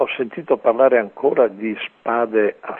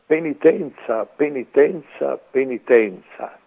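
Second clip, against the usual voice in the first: higher pitched cry of "Penitenza", easing on the last; angel's cry; 4 semitones higher than usual. Retold or imitated. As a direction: call "Penitenza" three times like an angel crying out, pitch high. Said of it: "gridò a gran voce". (l'angelo grida "Penitenza" a gran voce, tono alto)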